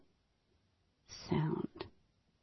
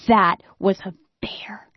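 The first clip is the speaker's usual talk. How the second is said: whispered, rising at the end; a frightened whisper. Retold or imitated. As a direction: breathe it out in a whisper. Answering in fear.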